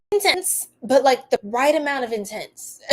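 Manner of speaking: said through a real laugh. Real, not acted. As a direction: giggle the words out. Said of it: "Just the right amount of intense".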